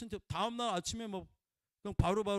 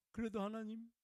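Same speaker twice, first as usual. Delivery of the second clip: much softer, coaxing question to God; soft plea; 4 semitones higher, 8 dB quieter than usual. Retold or imitated. A believer ending a complaint to God, soft and coaxing. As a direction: end softly and hopefully. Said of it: "이렇게 끝내야 되는 거야".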